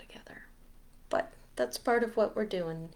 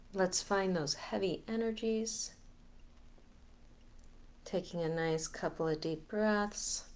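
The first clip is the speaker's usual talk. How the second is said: guided meditation; 2 semitones higher, 5 dB quieter than usual. Acted. Leader guiding listeners to let heavy energies go, guided meditation. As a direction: ease them through each breath, unhurried. Leads a breathing release meditation.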